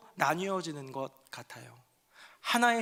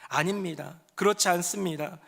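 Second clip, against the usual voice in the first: sad woman pleading; slower than usual. Acted. Hannah answers the priest, slow and sorrowful. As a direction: answer the priest gently out of grief. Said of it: "한나가 대답합니다".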